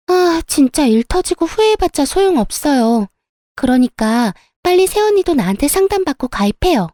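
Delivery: high, gloating I-told-you-so voice; triumphant sister-in-law. Acted. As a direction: crow at her with high, swooping pitch. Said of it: "엄청 의기양양한 목소리로".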